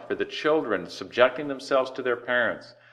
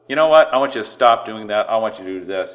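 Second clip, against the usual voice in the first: mock boss order; 6 dB louder, faster than usual. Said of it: "your boss says".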